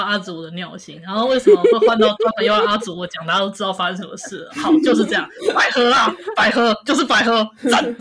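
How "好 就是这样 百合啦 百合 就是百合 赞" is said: excited cracking squeal. Real, not acted. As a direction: voice breaking with excitement. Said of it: "你破音了。".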